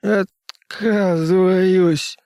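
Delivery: very slow, high, strained voice; painfully slow. Acted. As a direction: drag the word out in pain. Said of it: "Слова выходили с болезненной медлительностью".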